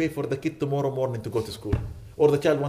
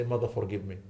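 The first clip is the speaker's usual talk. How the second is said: soft plea; 6 semitones lower, 5 dB quieter than usual. Retold or imitated. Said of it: "hug their mothers and say".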